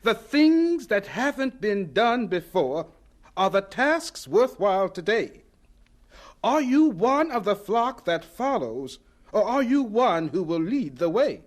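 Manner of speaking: measured recital of a poem; teacher reciting a poem to close class; poem recitation. Acted.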